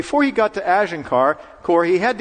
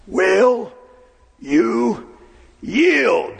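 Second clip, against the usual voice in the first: drawn-out, stern demand from the saddle; commanding voice; 7 semitones higher, much slower than usual. Retold or imitated. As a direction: command the governor to give up. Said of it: "very commanding voice".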